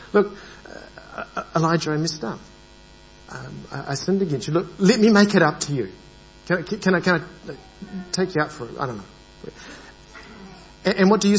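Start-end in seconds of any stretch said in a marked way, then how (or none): 0.1-9.0 softly offering to make amends; sheepish, a bit rushed at the offer; mild eager apology. Acted. Speaker apologizing to Elijah, offering a treat, mildly. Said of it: "something like this".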